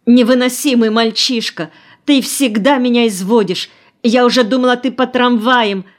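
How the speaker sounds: high, loud scolding cry; frantic scolding shout; exasperated shout. A narrator's reading. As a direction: yell at the boy in worried fury. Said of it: "закричала тотчас же Нина".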